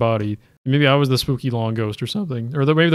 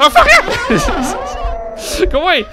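very high, loud, slow wailing cry; drawn-out scream; 5 dB louder, much slower than usual. Real, not acted. Player caught by the ghost again, screaming. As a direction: let out a long terrified shriek.

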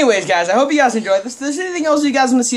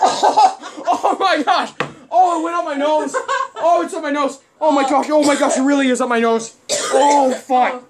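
higher pitched, laughing panic; laughing in disgust; 4 semitones higher, slower than usual. Real, not acted. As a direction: yelp and laugh through the sting. Cologne went up his nose.

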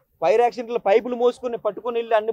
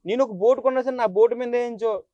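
raised, pleading with the officer, voice straining; retold desperate plea. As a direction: beg the police to believe you, chest-beating in despair. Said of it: "గుండెలు బాదుకున్నాను".

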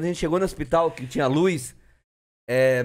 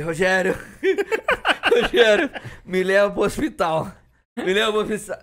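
mimicked plea for help, laughter breaking in; mock groaning plea; moaning sick friend; 4 semitones higher than usual. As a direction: plead like an ailing drunk friend, hammed up. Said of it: "Aí ele tava gemendo já".

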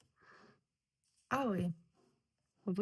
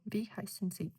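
Wie heißen Sie? with Wie stressed and the tune falling; stress on the first word. Shown as a demonstration. Teacher demonstrates a falling question with stress on Wie. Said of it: "наголос ... на перше слово".

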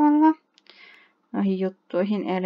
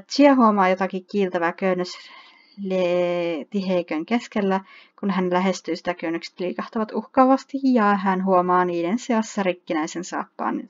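story narration. Acted. Reads game story text.

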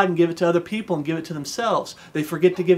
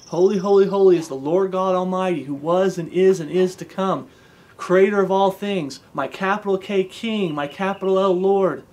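fervent prayer. Acted. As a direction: proclaim his majesty in praise. Praying praise aloud to God.

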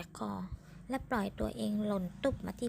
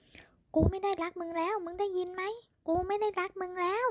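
angry repeated rejection; 9 semitones higher, 4 dB louder than usual. A narrator's reading. Man shouting rejection repeatedly.

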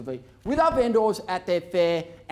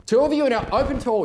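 raised voice calling across the room; auction bid spotter; 4 semitones higher, much faster than usual. Real, not acted. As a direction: call it out to the floor.

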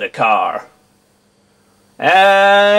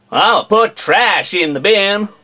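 American accent; 2 semitones higher than usual. Shown as a demonstration. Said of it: "an entire video in an American accent".

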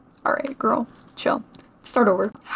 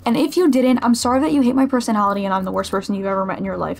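mock-hurt rant; faster than usual. Mock self-pitying rant to viewers.

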